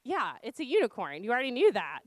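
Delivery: mildly irritated parent's reply; retold motherly exasperation; exasperated mom. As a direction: confirm the obvious to a toddler with a touch of impatience. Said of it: "I'm irritated. I'm exasperated".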